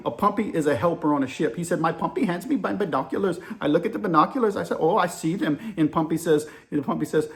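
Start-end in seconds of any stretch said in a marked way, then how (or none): 1.8-5.6 lightly put-on Indian accent; amateur Indian-accent reenactment; poor Indian accent. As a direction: retell it as an Indian sailor, accent roughly imitated. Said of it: "I'm about to give you my poor Indian accent".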